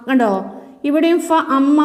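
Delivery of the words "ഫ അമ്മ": "ഫ അമ്മ" with a short m and long final aa; unwanted long vowel. Shown as a demonstration. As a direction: stretch the end of "ഫ അമ്മ", not the m. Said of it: "എന്ന് ഓതണ്ട".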